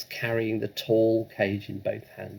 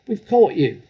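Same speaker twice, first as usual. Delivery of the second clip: loud, high challenge; bold shout; 8 semitones higher, 10 dB louder than usual. Acted. Matilda bursting in on the burglars, shouting high and loud.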